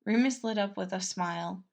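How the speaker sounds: ordinary delivery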